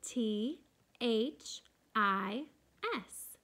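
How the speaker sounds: teacher spelling slowly aloud. Shown as a demonstration. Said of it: "Say it with me".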